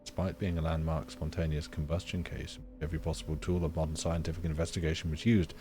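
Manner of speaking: calm documentary read; reading aloud. Acted. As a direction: read the case file evenly. Reads in-game document aloud.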